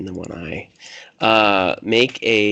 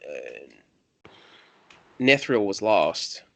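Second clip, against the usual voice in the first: rambling country loner losing the thread; light country accent, searching for the words. Acted. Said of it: "your country voice".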